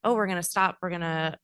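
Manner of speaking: a teacher setting a classroom rule; calm teacher voice. Shown as a demonstration. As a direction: kindergarten teacher coaching a child to stop and wait. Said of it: "the language might be".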